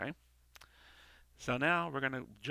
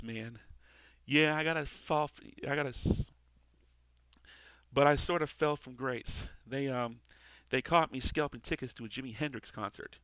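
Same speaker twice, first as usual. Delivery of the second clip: lightly voiced cynical angel, a bit higher; gruff wisecracking angel; 4 semitones higher, 3 dB louder than usual. Angel needles Al about heaven, lightly voiced wisecracks. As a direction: toss the jokes like a jaded angel. Reads the angel's script lines.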